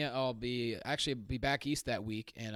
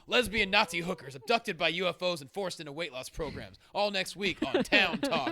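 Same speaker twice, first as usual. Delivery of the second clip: hammed-up talk-show host teaser, raised pitch; loud announcer plug, slowing on the show's name; George Newman; 5 semitones higher, 5 dB louder than usual. Battered host teases next week's show to camera, in a hammed-up announcer voice. Retold host's sign-off to camera.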